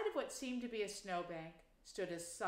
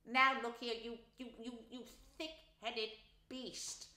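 really angry; 3 semitones higher than usual. A narrator's reading. Rat furious at thick-headed mole, angry. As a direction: splutter with anger. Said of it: "really angry".

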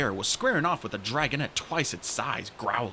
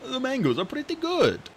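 sleepy dragon voice; 12 semitones higher than usual. Acted. Coconut voiced.

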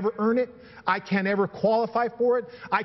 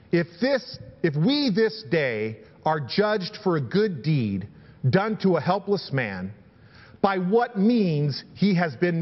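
measured, emphatic Bible reading; scripture reading. Acted. Preacher reading Peter's speech to the rulers, declarative scripture reading. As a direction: read it out deliberately, leaning on key words.

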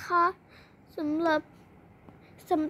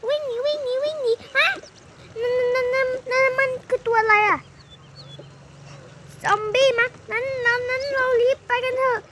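high, frantic cries to run away; panicked flight; 8 semitones higher than usual. Pretend. Kid fleeing a zombie, panicked. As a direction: scream at everyone to run.

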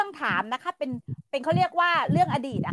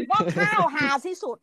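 indignant shout; 4 semitones higher, 4 dB louder than usual. Real, not acted. Shocked exclamation.

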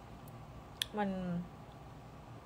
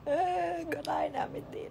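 whispered aside; 9 semitones higher than usual. Real, not acted. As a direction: whisper it like a secret to the camera.

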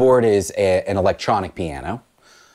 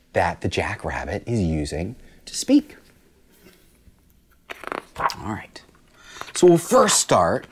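whisper. Real, not acted. Teacher whispers to class.

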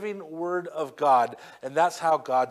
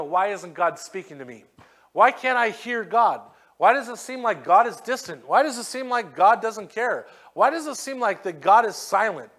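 higher, louder pleading questions; imitating a frustrated doubter; doubting believer; 4 semitones higher, 4 dB louder than usual. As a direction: plead like someone who feels ignored.

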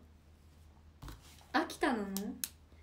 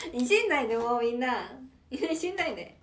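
playful protest; 5 dB louder than usual. Real, not acted. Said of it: "間違えたんだよ".

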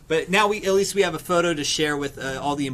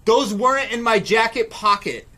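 mock denial; 5 semitones higher, 3 dB louder than usual. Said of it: "the guy reacts by going".

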